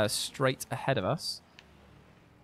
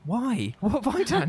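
high, laughing disbelief; 11 semitones higher, 3 dB louder than usual. Real, not acted. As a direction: laugh through the words. Laughing at creepy chat message.

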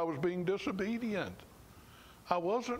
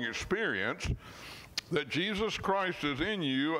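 scripture reading. Acted. Preacher reading Romans to his congregation, measured and earnest. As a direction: lean on each phrase as you read the verse.

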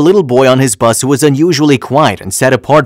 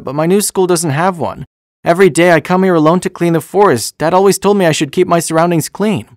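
put-on high-pitched child storyteller; little boy; 4 semitones higher than usual. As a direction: raise the voice into an earnest young boy's. Narrator voices the little boy.

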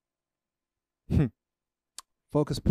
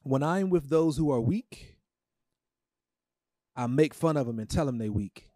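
mock. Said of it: "Is that what your Bible says".

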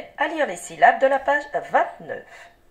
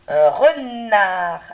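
slow clear demo word; 8 dB louder, much slower than usual. Shown as a demonstration. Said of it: "Dis si tu entends M".

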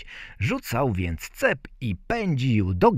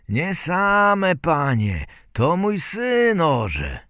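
raised, louder answer to the gentleman; peasant father; 9 semitones higher, 5 dB louder, slower than usual. A narrator's reading. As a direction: proudly correct a gentleman, pitched up. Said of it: "zagadnął chłopa". (chłop, podniesionym głosem)

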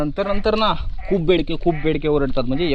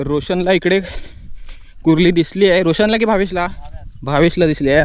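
loud, raised-voice question; real outdoor call, projected; 2 semitones higher, 5 dB louder than usual. Real, not acted. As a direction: call across to companions. Calling question about companions' find.

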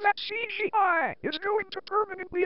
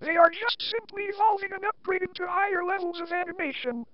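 computerized voice. Shown as a demonstration. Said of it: "using this computerized voice".

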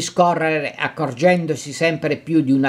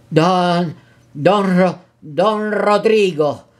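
hurried and forced; 3 semitones higher, much slower than usual. Acted. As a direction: spit the name out and try to swallow it. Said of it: "pronunciò in fretta il forzato".

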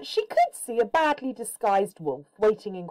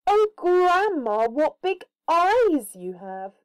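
higher, slower, mock-amazed child; playful little girl; 10 semitones higher, 6 dB louder, slower than usual. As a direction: gasp at grandma with wide-eyed wonder. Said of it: "she said".

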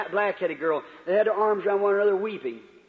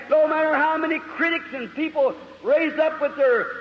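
raised, ringing preacher voice that builds to a shout on the last line; fiery preaching; 7 semitones higher than usual. Acted. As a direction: preach it to the whole hall, full force. Preaching in full voice.

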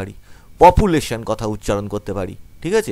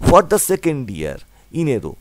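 slow reading; much slower than usual. Shown as a demonstration. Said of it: "এবার আসল মানেটা তোমাদের বলে দিচ্ছি".

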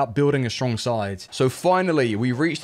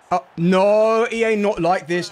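higher, louder despair; dismayed cry; 6 semitones higher, 4 dB louder than usual. Real, not acted. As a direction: wail at the game. Gamer losing in game.

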